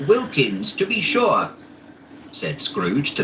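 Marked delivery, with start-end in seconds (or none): 0.1-1.5 delighted. A narrator's reading. Scrooge delighted seeing old friend.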